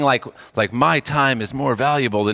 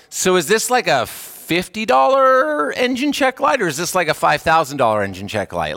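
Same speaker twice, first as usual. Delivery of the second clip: a touch of exasperated wondering; puzzled driver; 3 semitones higher than usual. Pretend. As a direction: wonder aloud what the repair costs. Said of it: "And you're like".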